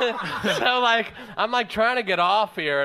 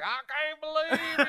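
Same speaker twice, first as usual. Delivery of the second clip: mock girly voice; 6 semitones higher, 6 dB quieter than usual.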